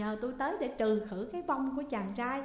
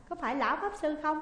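higher, louder urgent question; alarmed; 6 semitones higher, 5 dB louder, faster than usual. A narrator's reading. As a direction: demand to know if it was him. (hỏi dồn hốt hoảng)

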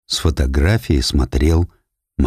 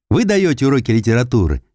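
put-on higher, quick girl's question; little girl voice; 6 semitones higher, faster than usual. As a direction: ask like a shy young girl. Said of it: "спросила девочка". (голос маленькой девочки)

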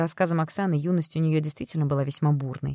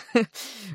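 a big throaty belly laugh; hearty guffaw; 6 semitones higher than usual. Acted. Stranger laughing at her joke, hearty guffaw. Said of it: "Мужчина расхохотался".

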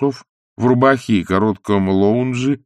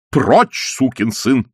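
mild shouted curse, higher; 4 semitones higher, 3 dB louder, much slower than usual. A narrator's reading. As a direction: snap it out as a shout. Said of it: "крикнул он". (сердитый выкрик)

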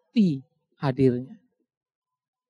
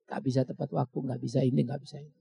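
fading scold; 7 semitones lower, 9 dB quieter, faster than usual. Acted. Preacher scolding, trailing off.

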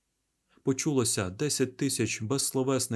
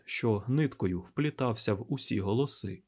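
ordinary delivery, nothing marked

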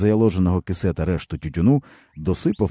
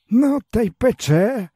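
higher, bitter village man's voice; weary peasant man; 3 dB louder, slower than usual. A narrator's reading. Stepan tells the boy his woes, bitterly. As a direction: speak as a broken old peasant.

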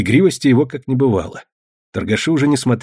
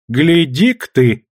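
bold; 3 semitones higher, 3 dB louder, slower than usual. Acted. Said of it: "смело молвила она".

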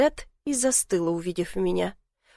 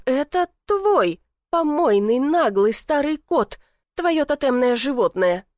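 raised, slow scathing insults; scornful anger; 5 semitones higher than usual. A narrator's reading. Lena scolds Miroslav, scornful and angry. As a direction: spit out each insult.

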